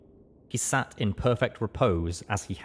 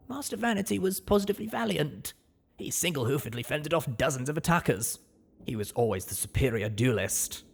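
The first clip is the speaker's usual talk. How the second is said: higher, quick admiring servant voice; proud maid voice; 6 semitones higher than usual. Acted. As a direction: boast about her master proudly. Maid praises her master.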